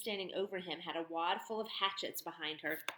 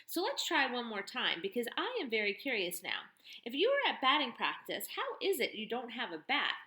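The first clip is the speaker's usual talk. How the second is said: louder, mocking turnaround of his question; mocking tough woman; 4 semitones higher, 4 dB louder than usual. Barn owner mocking the boy's question, loud and sardonic.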